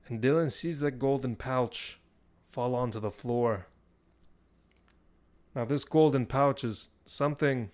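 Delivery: measured, dramatic scene setting; game master narration. Acted. Game master describes the golden pouch to the player, measured narration. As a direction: narrate it with pauses between phrases.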